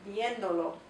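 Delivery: viéndolo with the stress on vién, dolo light; stress on vien. Shown as a demonstration. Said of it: "the emphasis still on the original viendo".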